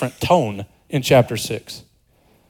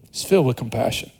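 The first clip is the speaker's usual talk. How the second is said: "filled" said softly, much quieter; soft echo; 5 semitones lower, 6 dB quieter than usual. Shown as a demonstration. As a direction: let "He's filled with compassion" drop to a hushed echo. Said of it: "repeated for emphasis".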